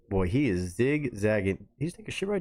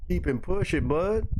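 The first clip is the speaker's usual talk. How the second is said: higher-pitched put-on animal voice; mock animal dialogue; 7 semitones higher, slower than usual. Narrator voices an animal brushing off another, in a high put-on voice. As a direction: repeat the brush-off in a high cartoonish voice.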